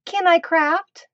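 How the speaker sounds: high, slow pleading dog voice; dog's voice. Pretend. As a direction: ask it like the begging dog. Voicing the dog's request.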